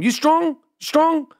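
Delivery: put-on hamming up an Asian accent for the masseur; mock Asian accent. To the airport masseur, a hammed-up mock Asian accent. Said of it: "I start doing an Asian accent with him".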